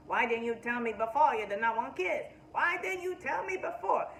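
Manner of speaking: angry shout that climbs with each repeat; heated yell. Retold or imitated. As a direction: demand it in rising fury. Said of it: "is heated".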